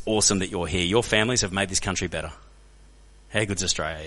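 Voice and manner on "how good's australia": low, gentle affirmation; understated, earnest pride; sincere appreciation. Real, not acted. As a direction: say it lower, quietly heartfelt. Tender close to the welcome.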